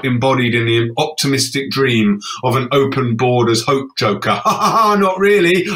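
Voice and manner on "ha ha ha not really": forced "ha ha ha" before a high "not really"; mock laugh. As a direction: laugh it off sarcastically. Mock laugh then retraction.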